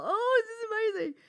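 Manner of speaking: put-on a child in awe of her present; delighted child. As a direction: gush over the gift like a child.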